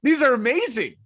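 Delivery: breathy whispered praise. Real, not acted. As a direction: say it under your breath, amazed. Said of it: "whispered praise".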